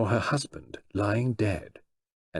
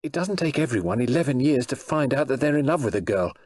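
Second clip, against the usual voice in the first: angry; 4 semitones higher than usual. Acted. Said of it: "cried Alex angrily".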